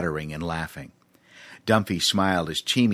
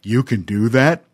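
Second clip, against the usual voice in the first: hopeful, louder elephant; amazed elephant; 3 semitones higher, 6 dB louder than usual. A narrator's reading. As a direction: ask in hopeful wonder. Voices Dumphy the elephant.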